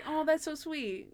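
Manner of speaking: high, soft, drawn-out aww reaction; touched cooing. Retold or imitated. Co-host recalls her touched reaction to Monk's line, cooing. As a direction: coo it softly and slowly.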